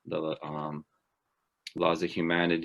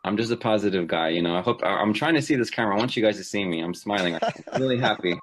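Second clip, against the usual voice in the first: happy; 2 semitones higher, 4 dB louder than usual. Real, not acted. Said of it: "We can hear it in your voice".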